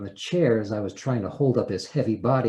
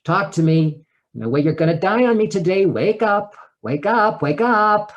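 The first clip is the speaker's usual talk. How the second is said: urgent calling out; 8 semitones higher, 7 dB louder than usual. Retold or imitated. Trying to revive unconscious ex-husband.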